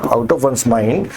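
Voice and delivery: very slow, careful English for learners; slow dictation pace; slow teaching read. Shown as a demonstration. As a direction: spell the phrase out slowly for students. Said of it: "पागल हो जाना".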